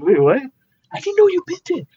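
very high, squeaky voice of stunned disbelief; shocked disbelief. Retold or imitated. Artist echoes the owner's praise back in shocked squeak. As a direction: echo his words back in a shocked, high voice. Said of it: "I'm even in shock".

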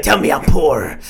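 loud hammed-up plea; mock shout. Friend mocking John's fantasy, shouting a pleading demand. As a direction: yell it like a begging submissive. Friend mocks John begging.

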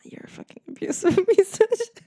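high, loud burst breaking into laughter; real laughter cracking through the insult; laughing insult. Real, not acted. Speaker to the listening ex, cracking up laughing.

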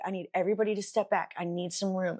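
quick, matter-of-fact command; composed, understated instructions; calm. Retold or imitated. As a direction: imitate a calm responder taking charge. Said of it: "my brother just calmly goes".

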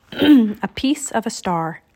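slow hushed whisper; whispered title. Shown as a demonstration. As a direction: whisper the chapter title slowly. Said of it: "Chapter nine".

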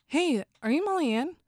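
high-pitched fan greeting; approaching fan. Retold or imitated. Girls approaching the comedian after her set, high fan voice. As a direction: pitch it up like a fan saying hello.

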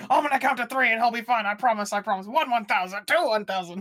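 imitating Gene Wilder calming Pryor down; Gene Wilder bit. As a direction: count it out like you're calming him. Gene Wilder voiced counting.

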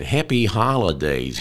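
lightly put-on American phrasing; American accent. Presenter quoting how Americans wish people well, light American accent. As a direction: give it a hint of American. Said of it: "as the Americans say".

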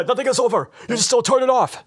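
Stallone impression. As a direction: shout it like a broken soldier. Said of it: "how does that go".

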